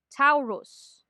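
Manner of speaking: "Taurus" with Filipino-style full vowels; Filipino mispronunciation. Shown as a demonstration. Teacher lists commonly mispronounced words, Filipino-style "Taurus". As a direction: say "Taurus" as Tagalog English speakers do, vowels full. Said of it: "commonly mispronounced words".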